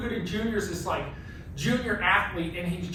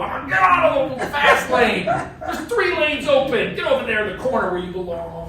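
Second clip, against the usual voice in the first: laughing mock driver; 5 dB louder than usual. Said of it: "I'm the guy who's, like, running the Subaru".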